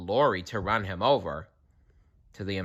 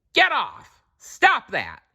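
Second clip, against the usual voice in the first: high loud angry yell; angry shout; 3 dB louder, slower than usual. A narrator's reading. Driver yelling at the owl, high and loud. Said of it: "he said".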